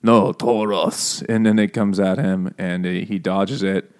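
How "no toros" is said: mock bullfighter. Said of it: "he's like".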